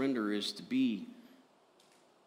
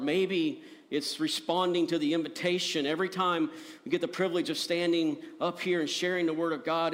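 higher-pitched, earnest altar call; impassioned preaching; 6 semitones higher, 4 dB louder than usual. Real, not acted. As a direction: press the invitation home with conviction. Preaches the invitation.

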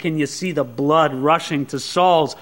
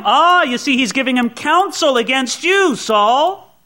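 high, insinuating tattletale voice; sly informer Doeg; 7 semitones higher, 4 dB louder than usual. Acted. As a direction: whisper poison into the king's ear, pitched up. Doeg slanders Ahimelech to Saul.

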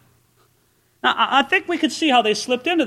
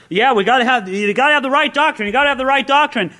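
mock zealous insistence; 4 semitones higher, faster than usual. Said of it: "we're all concerned".

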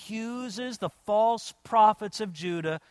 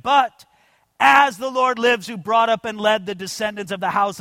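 raised, forceful Bible reading; proclaimed scripture reading; 3 semitones higher, 5 dB louder than usual. Acted. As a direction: read it out as a ringing proclamation. Reads scripture aloud at raised pitch.

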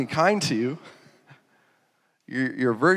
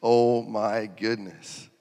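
slow awed disbelief; 3 semitones lower, much slower than usual. Retold or imitated. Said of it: "We'd be like".

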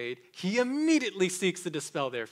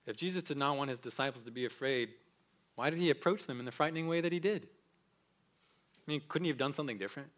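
skeptic's question; faster than usual. Acted. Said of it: "someone might ask".

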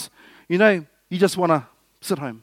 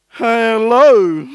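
cold hello; 3 semitones higher, 8 dB louder than usual. Retold or imitated. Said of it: "Day two could be like".

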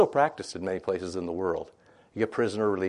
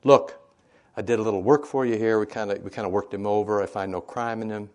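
louder Pilate; 5 dB louder than usual. Acted. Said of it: "Pilate said".

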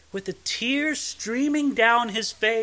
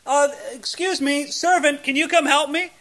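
voicing Job; 5 semitones higher than usual. Job calling his servants.

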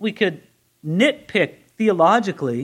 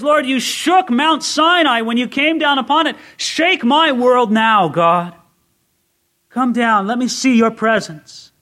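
fervent prayer; 5 semitones higher, 5 dB louder than usual. Acted. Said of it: "so here he says".

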